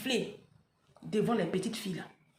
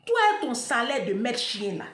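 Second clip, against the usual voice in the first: mock scornful husband, louder on Valentino; mari méprisant imité; 4 dB louder than usual. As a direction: voice him putting her down. (imitation moqueuse du mari)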